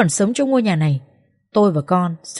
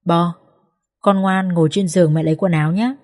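comforting. Acted. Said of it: "an ủi".

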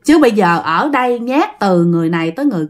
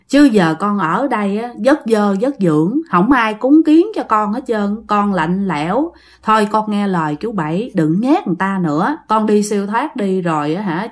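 persuading elder uncle. Acted. Elder uncle urging ghost to move on, mildly coaxing. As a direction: gently talk her into letting go.

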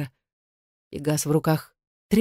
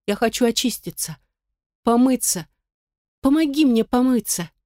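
put-on desperate child's plea; 7 semitones higher than usual. A narrator's reading. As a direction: beg the nanny, distraught. Upset girl begs the nanny. (девочка отчаянно умоляет)

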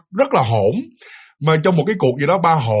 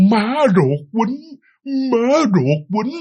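slow and a bit higher, calmer than the first struggling try; slower, calmer; 7 semitones higher, much slower than usual. Retold or imitated. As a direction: say it slowly and more steadily now. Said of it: "ba ông mới nói chậm rãi hơn".

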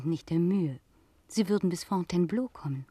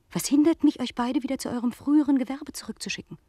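raised, higher voice, threatening to send them back; angry threat; 7 semitones higher, 6 dB louder than usual. Acted. Pomré threatening mother and daughter: raised angry voice. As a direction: let the threat flare up loud and high.

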